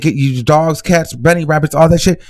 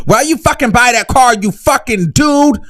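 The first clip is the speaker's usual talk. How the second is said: high, shrieking mock rage; mock furious rant; 9 semitones higher than usual. Voicing the girls mad at Madison's BMW, high mock rage. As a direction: screech it like an outraged rival.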